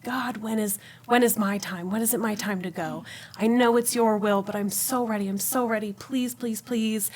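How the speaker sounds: softened, understated prayerful begging; retold tearful pleading. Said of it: "just crying and crying and crying".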